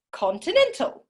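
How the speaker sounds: high, strange put-on voice; goofy high character voice; silly voice. Shown as a demonstration. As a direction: ham it up for the class. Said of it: "use a different voice".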